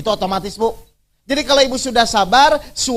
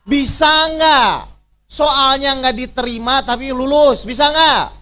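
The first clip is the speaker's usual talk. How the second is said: challenging shout; 4 semitones higher, 4 dB louder, slower than usual. Real, not acted. Challenging the congregation.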